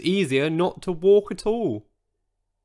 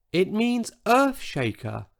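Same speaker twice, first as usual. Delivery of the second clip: tiny voice; 7 semitones higher than usual. Acted. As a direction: shrink the voice down to a tiny one. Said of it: "in a voice so tiny".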